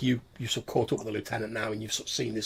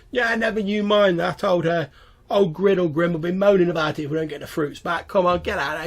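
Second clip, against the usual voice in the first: higher, louder goblin boss voice; bossy goblin foreman; 8 semitones higher, 8 dB louder than usual. Acted. Goblin boss hurrying his crew out to pick fruit, bossy. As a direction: order the crew along, loud and high.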